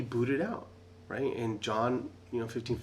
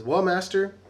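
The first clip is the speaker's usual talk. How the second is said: timid servant pleading; 4 semitones higher, 7 dB louder than usual. Retold or imitated. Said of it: "He says".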